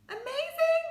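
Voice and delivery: loud high amazing; excited praise. Real, not acted. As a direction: exuberant praise.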